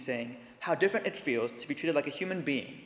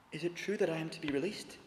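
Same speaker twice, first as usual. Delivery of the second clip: almost inarticulate; 7 dB quieter than usual. Acted. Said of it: "in an almost inarticulate voice".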